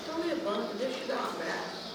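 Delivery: soft, kindly offer; tender comforting. Retold or imitated. Helper offering a hug to an upset woman, tenderly. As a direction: soothe her softly.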